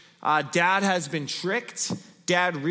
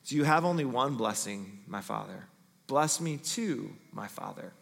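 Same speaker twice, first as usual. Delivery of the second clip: weeping plea; 5 semitones lower, 6 dB quieter than usual. A narrator's reading. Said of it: "Esau wept aloud".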